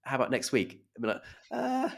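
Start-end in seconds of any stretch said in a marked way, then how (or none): 0.0-0.8 higher-pitched, keen imitation of wife; eager acceptance. Wife accepting a polite invitation literally, eager. 1.5-1.9 much higher, hesitant mock embarrassment; awkward correction. Husband to wife after her acceptance, awkward.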